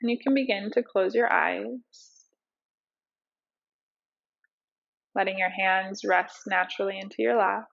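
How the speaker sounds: unhurried meditation teacher, leaving space between cues; guided meditation. Acted. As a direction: ease them into breath awareness, phrase by phrase.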